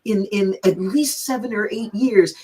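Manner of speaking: imitating a delighted hostess, careful and sincere; gracious retold welcome, lightly acted; smiling, caring. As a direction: say it through a big smile. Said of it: "biggest smile on her face and so much care".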